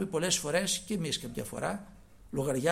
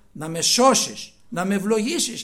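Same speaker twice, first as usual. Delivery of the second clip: fervent prayer; 3 semitones higher, 10 dB louder than usual. Real, not acted.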